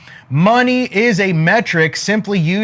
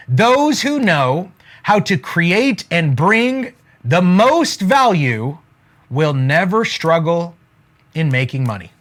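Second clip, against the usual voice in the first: slow, measured delivery with pauses between phrases; slow dictation. Real, not acted. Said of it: "write this down".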